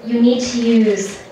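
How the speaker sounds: slow, baffled question; drawn-out, uncomprehending question; still confused. Retold or imitated. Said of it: "The guy again asked".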